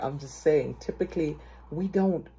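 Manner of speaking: ordinary talk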